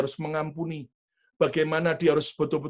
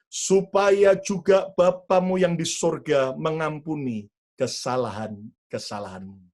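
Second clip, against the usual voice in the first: reading scripture aloud; 3 dB louder than usual. Real, not acted. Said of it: "Yuk kita baca bersama-sama".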